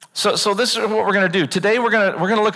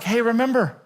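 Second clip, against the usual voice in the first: lightly voiced patient God; hint of a calm reassuring God; gentle voice of God; slower than usual. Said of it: "And God's like".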